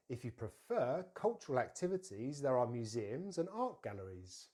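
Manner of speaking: careful teacher's model, stress on "fer" in "prefer"; clearly phrased for repeating; model sentence. Shown as a demonstration. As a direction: say it for learners to copy. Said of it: "say the sentence together".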